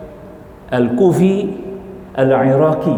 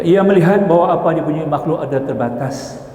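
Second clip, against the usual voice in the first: measured recitation of a religious text; formal teacher reading from a book; reading aloud. Real, not acted. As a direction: read the passage out evenly, clause by clause. Reads aloud from the study text.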